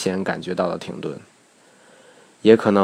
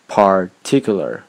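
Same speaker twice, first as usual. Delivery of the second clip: "particular" slowly, with a stop after "par", then firm "tic"; pause before stress; slower than usual. Shown as a demonstration. Teacher giving a practice word, "particular" split by a pause. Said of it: "可以多拿几个单词练练".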